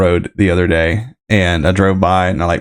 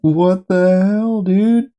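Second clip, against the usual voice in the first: stunned disbelief; 10 semitones higher, much slower than usual. Real, not acted. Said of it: "Oh my God".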